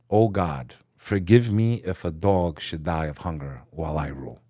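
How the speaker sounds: hushed pleading prayer. Retold or imitated. King praying to God through the night, softly pleading.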